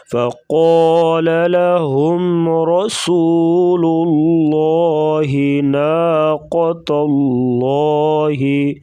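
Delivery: full heavy ل in الله and thick ق in فقال; slow chant, darkened lam; heavy Allah. Shown as a demonstration. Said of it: "یہاں پہ اس کو موٹا کریں گے".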